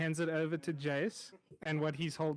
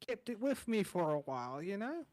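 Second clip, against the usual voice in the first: friendly rambling cook voice, a little higher; chatty chef; 3 semitones higher than usual. Acted. GM as chef reassuring the newcomer, friendly and rambling. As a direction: play the easygoing tavern cook. Chef explains finding the symbol.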